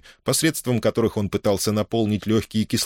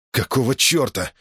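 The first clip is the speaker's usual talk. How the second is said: rising into a much higher indignant protest; indignant outrage; 6 semitones higher than usual. A narrator's reading. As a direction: demand it in outrage. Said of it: "возмутился он".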